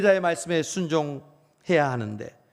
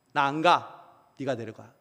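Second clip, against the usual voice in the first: sulky refusal; 3 semitones lower, slower than usual. Retold or imitated. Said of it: "하나님이 지금 토라져 계십니다".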